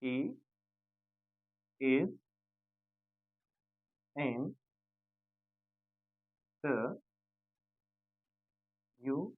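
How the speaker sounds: "he is in the union" spaced out word by word; slow word-by-word demo. Shown as a demonstration. Teacher dictates a sentence word by word to students, slowly. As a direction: say "he is in the union" one word at a time. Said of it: "कह दो".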